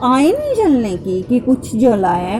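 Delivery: acting out a mild scolding; upset reproach. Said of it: "तो मैं नाराज़ हो रही हूँ गुरुपा से".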